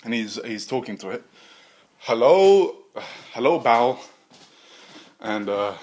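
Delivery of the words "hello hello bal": mad scientist voice. Acted.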